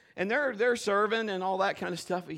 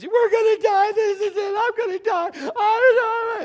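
high, loud, crying mock panic; panicked crying; 10 dB louder than usual. Drunk passenger sobbing in panic, high and loud. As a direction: wail in terror about dying. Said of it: "he turns".

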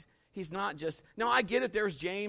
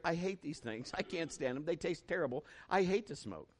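quiet mantra; 5 dB quieter than usual. Retold or imitated. Preacher repeats the mantra.

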